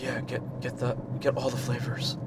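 breathless pothead; winded, airy and lazy; out of breath. Acted. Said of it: "sounds like an out of breath pothead".

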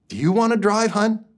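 sarcastic wife. Retold or imitated. Wife's sarcastic jab.

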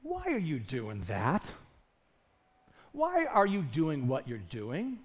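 soft, low, searching question; gentle voice of Jesus. Retold or imitated. Jesus quietly questioning a believer, soft and low. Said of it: "sounds something like this".

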